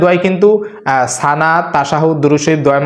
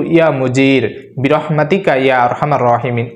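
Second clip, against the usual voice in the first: recited prayer. Shown as a demonstration. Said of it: "এই মুনাজাত আমি বলে দিব".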